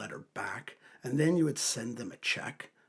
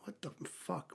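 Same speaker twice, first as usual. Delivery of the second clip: whispered outrage; 4 semitones higher, 7 dB quieter, slower than usual. Retold or imitated. Retelling outrage at a cop's ticket.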